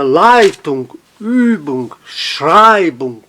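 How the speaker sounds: "Leitung, Übung, Schreibung", each hit on its first syllable; stress before -ung. Shown as a demonstration. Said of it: "sempre a sílaba tônica fora desse sufixo".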